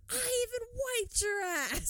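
high mock voice. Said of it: "Ricky goes".

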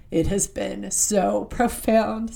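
slow, words catching in a tight throat; fighting back real tears on profound; choked up. Real, not acted. Sharing how a show moved her, choked up. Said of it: "Sorry, excuse me".

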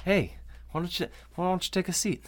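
high voice, softening as it goes; calming friend. Acted. Friend asks the angry cop to sit, high mock soothing voice. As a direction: imitate someone gingerly talking a hothead down. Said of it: "And Hatch is like".

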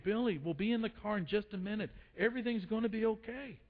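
mild imitation of a patient dad; very calm. Dad soothing Billy at the checkout, mildly acted calm. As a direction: reassure lightly, with measured restraint. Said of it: "the dad very calmly says to him".

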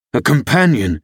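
mild exclamation of disbelief; a touch of indignant disbelief; incredulous cry. A narrator's reading. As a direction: throw the word back as a question. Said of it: "he cried".

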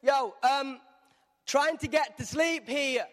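grumpy Silas hushing Paul; annoyed Silas. Retold or imitated. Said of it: "he's going".

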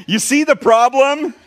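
mock astonishment at the couple; pressing the couple on the problem, high and slow; incredulous. Pastor driving the point home.

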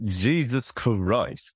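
put-on very slow drawn-out Jewish accent; mock Jewish accent. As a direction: stretch each word in a Jewish accent. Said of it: "In, in that accent".

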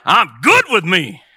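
drawn-out, forceful declaration; rallying shout. Shown as a demonstration. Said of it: "One more time".

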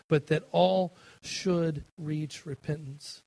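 slow, deliberate reading; scripture reading. Acted. Preacher reading Second Peter slowly to the congregation. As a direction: read the verse slowly, word by word.

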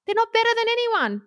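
high-pitched, indignant rant; worked-up anger. Real, not acted. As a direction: get fired up on their behalf, pitch climbing. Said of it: "I get angry at them".

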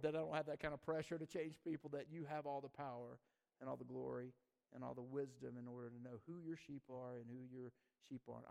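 hushed, grateful address to God; spoken prayer. Real, not acted. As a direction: settle into thankful prayer. Prays aloud to God.

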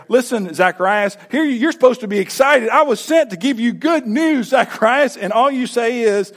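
exasperated angel. Acted. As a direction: let the frustration rise as you scold. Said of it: "you can almost sense in the angel's voice there".

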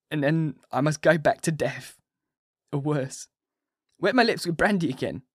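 a broken patient rushing his confession; dying Renfield. A narrator's reading.

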